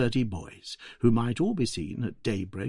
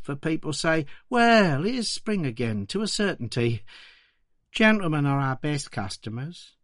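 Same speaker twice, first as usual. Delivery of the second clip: a hint of a poor Victorian flower girl, higher; young London flower seller, lightly voiced, higher; 5 semitones higher than usual. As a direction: play the flower girl answering politely, higher. Flower girl's words voiced.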